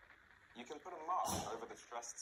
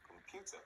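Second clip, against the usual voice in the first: com-PU-ter, stressed in the middle; middle-syllable stress; 9 semitones higher, 7 dB quieter than usual. Shown as a demonstration. Teacher modelling a word to repeat, middle syllable stressed in Computer. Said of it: "It can be in the middle".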